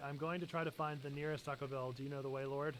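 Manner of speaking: quietly voiced prayer; hushed mock prayer. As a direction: ask the Lord, half-joking. Imagined prayer to Jesus.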